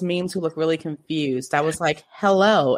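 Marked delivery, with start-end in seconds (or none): 2.1-2.8 lightly robotic greeting. Retold or imitated. Wife greeting her confused husband, lightly robotic. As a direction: say it a little like a robot. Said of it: "I did the robotic voice".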